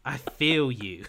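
slow, loud drawn-out I feel you; mock sultry. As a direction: stretch it out teasingly. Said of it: "This is actual lines".

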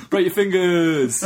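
high, slow, through laughter; amused parody, laughing; laughing mock threat. Real, not acted. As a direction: giggle out the threat. Repeating the quote laughing.

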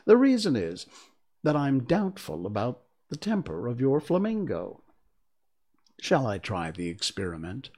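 put-on fussy old duchess; frail withering duchess. Duchess speaking to Alice.

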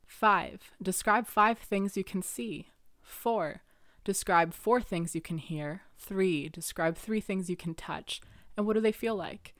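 slow, calm guiding voice; guided instructions. Shown as a demonstration. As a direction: lead someone through grounding, slowly. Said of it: "grounding technique".

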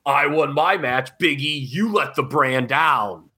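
slow, drawn-out wrestler's promo, lightly put on; mock Seth Rollins. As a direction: imitate a wrestler's promo, stretching the words. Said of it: "Seth's gonna come out on Raw tonight".

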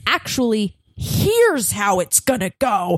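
turning the line back on them, firm and pointed; defiant comeback. Retold or imitated. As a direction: throw their own words back with attitude. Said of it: "I was sort of just like".

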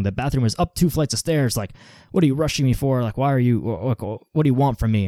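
retold irritated snap. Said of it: "kinda snapped a little bit".

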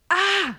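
small, high imitation scream; demonstrated scream. Shown as a demonstration. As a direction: let out a restrained "aah" as if screaming from within. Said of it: "Du schreist so f-, von dir, von innen".

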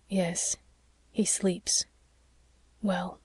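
soft, hushed, partly whispered; gently breaking sad news in a hush; quietly. A narrator's reading. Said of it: "he added quietly".

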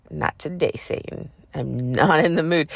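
dismissive, sarcastic brush-off; sassy, unbothered dismissal; sarcastic, with attitude. Retold or imitated. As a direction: wave the devil off with attitude. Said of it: "I said it just like that. I said it sarcastically and with attitude".

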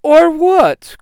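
high, loud scornful challenge; mocking taunt. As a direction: sneer it with a laugh. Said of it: "Korgon says with a laugh".

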